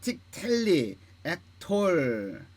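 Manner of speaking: slow, evenly spaced recitation of each word; model word-list reading. Shown as a demonstration. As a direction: read down the list deliberately, stretching the final syllables. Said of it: "다시 한번 읽어볼게요". (단어를 하나씩 또박또박 읽기)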